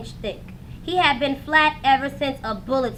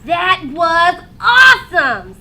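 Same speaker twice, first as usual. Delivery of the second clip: louder, slow, breathless delight; thrilled kid; 2 semitones higher, 9 dB louder, slower than usual. A narrator's reading. Boy after a parachute jump, thrilled and loud. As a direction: gush about the ride.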